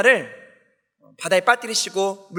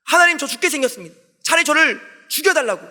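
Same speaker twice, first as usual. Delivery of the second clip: higher-pitched mild mock protest; lightly acted complaint, pitched up; arguing back; 5 semitones higher, faster than usual. Jonah complains to God that he's dying, mildly acted arguing. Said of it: "또 하나님께 막 따져요".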